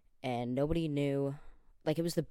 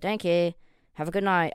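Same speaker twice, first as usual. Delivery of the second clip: put-on much higher, louder childlike voice; little kid voice; 5 semitones higher, 10 dB louder than usual. Trick-or-treating at a stranger's door, high kid voice. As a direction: pass yourself off as a small child. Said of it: "I said".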